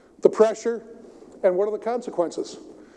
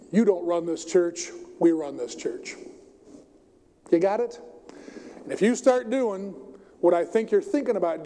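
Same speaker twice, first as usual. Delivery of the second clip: condescending. Retold or imitated. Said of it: "That condescending".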